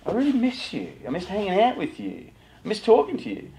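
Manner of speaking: sincere, softly pleading parent; vulnerable. Shown as a demonstration. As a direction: let your guard down and tell them you miss them. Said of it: "just be vulnerable and say".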